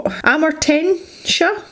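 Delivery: Amortentia drawn out slowly, rising; careful pronunciation. Shown as a demonstration. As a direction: sound out Amortentia syllable by syllable. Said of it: "give your next set of paints really straightforward names".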